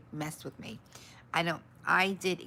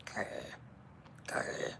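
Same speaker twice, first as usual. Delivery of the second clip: playful growl; 9 dB quieter than usual. Pretend. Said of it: "I'm just gonna grr at it now".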